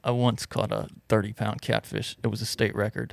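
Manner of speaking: soft, deadpan macho boast; real dude. Pretend. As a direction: brag quietly like a tough action man. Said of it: "that's a real compliment from a real dude".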